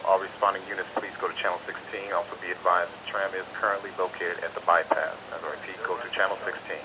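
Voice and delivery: crackly two-way radio dispatch; radio call to all units; marine radio. Real, not acted. Dispatcher broadcast over radio.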